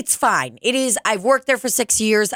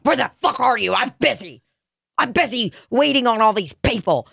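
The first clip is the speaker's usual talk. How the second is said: mock irritated bartender; 5 semitones higher than usual. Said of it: "I'll get mad at them".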